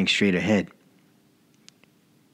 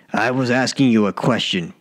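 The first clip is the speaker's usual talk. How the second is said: shouting; 3 semitones higher than usual. Acted. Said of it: "Walter shouted".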